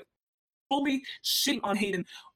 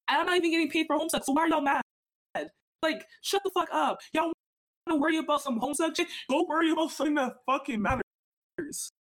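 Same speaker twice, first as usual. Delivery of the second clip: real angry outburst; 6 semitones higher than usual. Real, not acted. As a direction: let the frustration boil over at them. Angry rant at the fandom.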